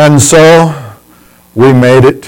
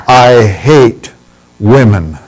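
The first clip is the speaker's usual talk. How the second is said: laughing mock insult; slower than usual.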